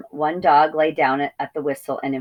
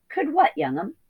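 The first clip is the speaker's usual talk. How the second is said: put-on whispered old sheep voice; whispery old ewe; 10 semitones higher than usual.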